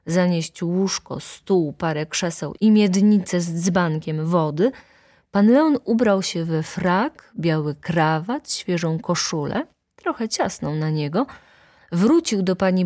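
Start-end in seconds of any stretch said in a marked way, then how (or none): none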